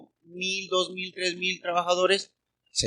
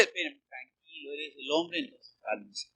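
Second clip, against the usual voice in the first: calming him down; 4 semitones lower, 10 dB quieter than usual. Pretend. Calming the mock macho man.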